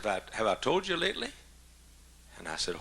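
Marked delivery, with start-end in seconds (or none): 0.0-1.3 higher, lilting question rising at the end; lightly voiced affectionate wife; coy affection. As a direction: imitate a wife angling sweetly. Voicing wife's affectionate bedtime question.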